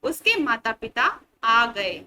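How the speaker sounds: said slowly and loud as the right version; slow corrected sentence. Shown as a demonstration. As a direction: model the corrected "उसके माता पिता आ गए।" slowly. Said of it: "शुद्ध उच्चारण करके क्या पढ़ेंगे".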